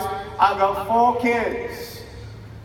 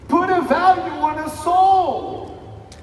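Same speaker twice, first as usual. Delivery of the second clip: slow emphatic shout; 4 semitones higher, slower than usual. Real, not acted. Climax of motivational speech.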